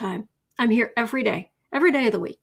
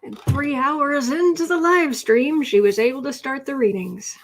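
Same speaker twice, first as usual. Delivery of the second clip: mock narrator; 2 semitones higher, 5 dB louder than usual. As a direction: announce her own late start like a wry storyteller. Mock narrating her own delay.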